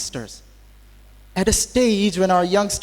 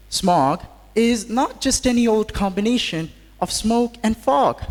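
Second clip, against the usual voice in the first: formal speech to an audience; podium speech; 3 semitones lower than usual. Acted. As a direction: address the hall like a speaker. Formal address to faculty and students.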